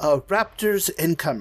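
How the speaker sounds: put-on calm computer announcer voice. Describing a game's warning before raptors appear: imitating a calm computer voice. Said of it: "this computer voice that'd be like".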